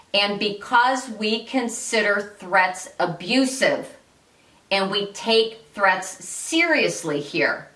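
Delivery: slow, deliberate firm boundary; firm warning. Shown as a demonstration. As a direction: state the warning evenly, weighing each word. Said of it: "Then say this".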